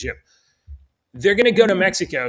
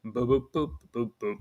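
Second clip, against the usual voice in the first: filler boops; 3 semitones lower, 6 dB quieter than usual. Real, not acted. Host mumbles while cueing a clip.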